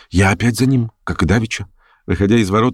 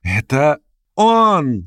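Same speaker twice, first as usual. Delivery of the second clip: put-on slow, higher, lively young woman; bright call of a girl on horseback; young girl's voice; 6 semitones higher, much slower than usual. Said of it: "свежий, резвый, юный голос". (юный звонкий девичий голос)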